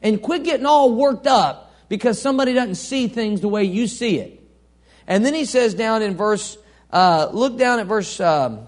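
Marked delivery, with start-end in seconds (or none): 0.0-4.4 soothing Paul. Acted. Preacher voicing Paul telling believers to relax, soothing. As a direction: ease them out of getting worked up. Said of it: "Paul says".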